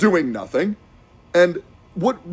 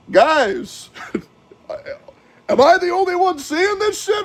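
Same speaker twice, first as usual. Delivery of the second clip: incredulous plea; 11 semitones higher than usual. Retold or imitated. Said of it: "but I'm like".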